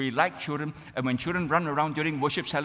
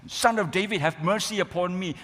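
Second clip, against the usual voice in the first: raised-pitch, mildly shouted plea; retold cry for mercy; 4 semitones higher than usual. Blind Bartimaeus calling to Jesus as he passes, mock shout. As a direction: call out as if imitating a desperate beggar. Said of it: "when he screamed and shouted".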